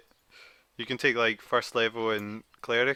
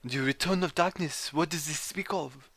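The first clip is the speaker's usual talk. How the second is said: lightly put-on French accent; a hint of a French gentleman greeting; 4 dB quieter than usual. French character answering the game master, a light French accent. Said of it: "chose to do a French accent".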